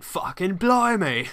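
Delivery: high, loud, slow mock cockney; drawn-out, overdone London exclamation; London accent attempt. Shown as a demonstration. Friend showing how his London accent fails, exaggerated cockney. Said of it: "end up finding myself saying".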